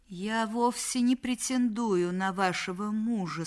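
embarrassed. Acted. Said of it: "смущённо ответила Мадлен".

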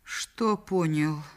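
slow, strangled question; choked voice. Acted. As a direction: force it out through a tight throat. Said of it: "сдавленным голосом произнесла Мадлен". (сдавленным голосом)

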